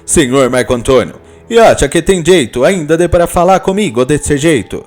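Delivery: a touch of a jealous husband confronting him; jealous husband challenging the rival, mildly agitated; nervous Italian. Acted. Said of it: "Nervoso, o italiano indaga".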